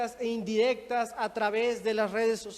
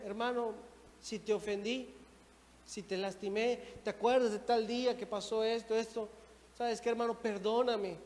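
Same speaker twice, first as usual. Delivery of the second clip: apologetic; 6 dB quieter than usual. Acted. Acted apology to a brother.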